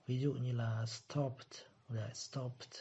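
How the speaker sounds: stopped with the ending heard as a short T after the P; ending as P sound. Shown as a demonstration. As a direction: end stopped crisply on its final consonant. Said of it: "có per này". (stopped đọc đuôi ed thành âm T)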